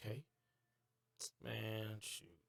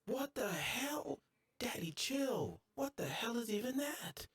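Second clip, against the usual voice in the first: sudden high-pitched disbelief; startled; 11 semitones higher, slower than usual. Real, not acted. Gamer shocked at a strange creature, high and startled. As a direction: squeak out the shock.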